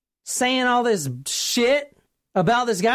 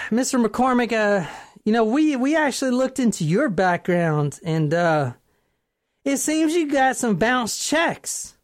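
put-on hesitant cop with a country accent. Police confronting the tipster over bounced checks, put-on country accent. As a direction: turn suspicion on the caller in a country accent. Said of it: "do this in an accent".

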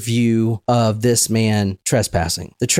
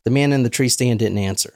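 ordinary talk, nothing marked

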